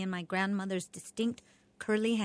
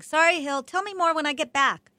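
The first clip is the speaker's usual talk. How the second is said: dad calling out; 8 semitones higher, 6 dB louder than usual. A narrator's reading.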